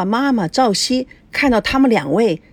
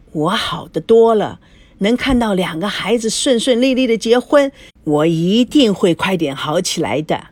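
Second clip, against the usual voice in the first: lightly voiced old woman, hopeful; ailing grandmother. Grandmother looking forward to the wedding, lightly aged and hopeful. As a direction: reassure them as a recovering grandmother.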